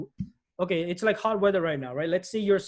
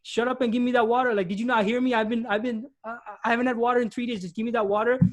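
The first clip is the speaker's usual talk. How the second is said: mock-snap at Dean to just hand over the water; impatient thirsty demand; 4 semitones higher than usual. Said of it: "You're gonna be like".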